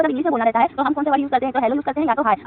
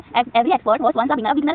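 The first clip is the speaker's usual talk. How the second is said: slow, deliberate reading of the quote; teacher reading a board quote slowly; much slower than usual. Shown as a demonstration. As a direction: read the quote out slowly, word by word. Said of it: "very beautiful कोट लिखा है".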